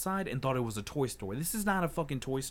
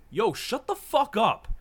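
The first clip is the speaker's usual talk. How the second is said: loud, high angry outburst, retold; re-enacted blow-up, pitched way up; losing control; 10 semitones higher, 9 dB louder, slower than usual. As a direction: snap and yell it, drawn out. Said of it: "lost control".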